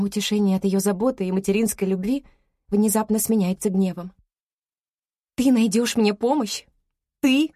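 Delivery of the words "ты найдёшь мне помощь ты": furious accusing question; shaking with anger. Acted. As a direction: voice trembling with rage, rising. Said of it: "Мой голос дрожит от ярости". (голос дрожит от ярости)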